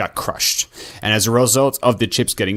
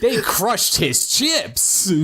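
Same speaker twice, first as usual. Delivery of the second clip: laughing; 11 semitones higher, much slower than usual. Real, not acted. Laughing outrage over chips.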